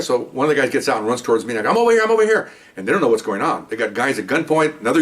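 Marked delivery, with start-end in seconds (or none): 1.7-2.5 high, louder call across the dark. Retold or imitated. Signalling the running officer, a raised repeated call. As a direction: wave them over with your voice.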